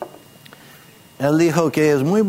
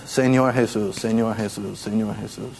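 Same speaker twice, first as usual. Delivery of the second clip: solo con la boca; 5 semitones lower, 4 dB quieter than usual. Shown as a demonstration. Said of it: "no es simplemente decir con la boca".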